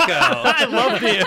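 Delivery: slow, high, loud laughing declaration of love; delighted cheer. Real, not acted. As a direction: gush over the news with a laugh. Cheering the Mako's return.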